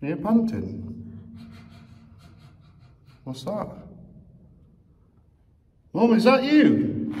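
slow, high nervous call into dark. Acted. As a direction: call out warily, scared. Calling in dark tunnel.

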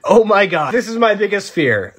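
high-pitched mock dread; retold panic. Patient blurting to himself as the doctor laughs, panicked. Acts out his alarm at doctor.

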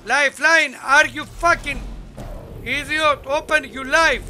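exasperated shouting at teammate; man down shout. Real, not acted. Frustrated at teammate not reviving.

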